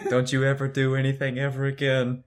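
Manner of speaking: soft, level murmur; hushed, monotone admonition; mock whispered warning. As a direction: warn it softly into an ear. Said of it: "I whisper in Cyril's ear".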